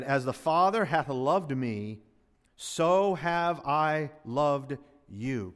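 slow, weighty reading of the verse, each word laid down; slow scripture reading. Shown as a demonstration. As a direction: read it out slowly as holy text. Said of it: "Look at it".

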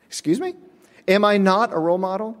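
high, incredulous retort; mock outrage at being passed over; indignant surprise. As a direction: play it shocked and offended. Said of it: "I'm like".

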